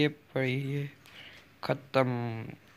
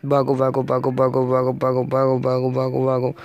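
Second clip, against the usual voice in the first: panicked shouting; 7 dB louder than usual. Real, not acted. Fleeing an enemy in game.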